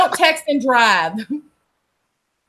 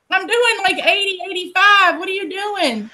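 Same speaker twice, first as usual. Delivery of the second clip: retold disbelief; 9 semitones higher than usual. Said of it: "And I was like".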